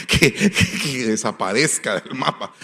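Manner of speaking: laughing through the words; amused, laugh-broken mock prayer. Real, not acted. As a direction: break into a chuckle while wishing someone gone. Laughs at his own mean prayer.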